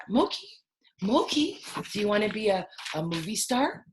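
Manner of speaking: sing-song pet talk; talking to puppy. Real, not acted. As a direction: coo at the dog.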